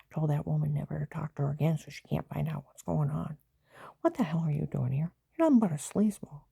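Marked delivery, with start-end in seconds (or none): 4.0-6.4 angry outburst. Real, not acted. Telling off the sleazeball neighbor, loud and angry. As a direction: tell him off hard.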